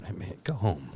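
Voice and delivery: a buddy's soft, casual urging; soft, soothing. Retold or imitated. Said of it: "Just real soft like that".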